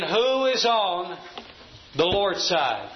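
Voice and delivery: slow, deliberate pointed question; slow and pointed, each word weighted. Retold or imitated. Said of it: "Moses asked that pointed question".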